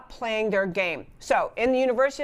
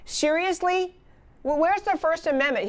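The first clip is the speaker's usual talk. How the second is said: incredulous; 6 semitones higher than usual. Retold or imitated. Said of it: "just said".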